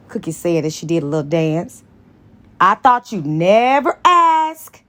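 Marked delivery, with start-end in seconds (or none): 2.6-4.8 eager. Acted. Carol eager reply.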